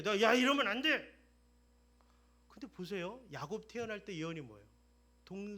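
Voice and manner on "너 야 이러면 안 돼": scolding father. Acted. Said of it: "야곱이 요셉을 꾸짖어요".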